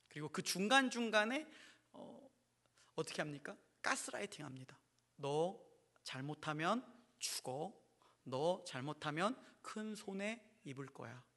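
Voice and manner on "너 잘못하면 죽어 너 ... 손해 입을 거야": mild, slow menacing warning; threatening idol. Acted. A false god threatening believers, slow and mildly menacing. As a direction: threaten them quietly. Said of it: "사람을 협박합니다".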